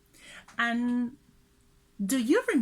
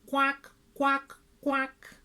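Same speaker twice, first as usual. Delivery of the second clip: duck quack. Shown as a demonstration. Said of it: "Quack like a duck".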